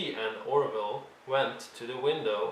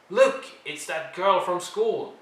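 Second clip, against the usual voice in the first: put-on slow, sneering kid voice, higher and louder; taunting twin; 6 semitones higher, 5 dB louder than usual. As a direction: drag it out to mock her. Bullies taunt Violet.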